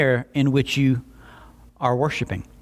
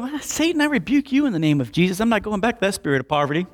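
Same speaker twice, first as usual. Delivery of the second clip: mock rebuke; 5 semitones higher, faster than usual. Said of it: "And you go".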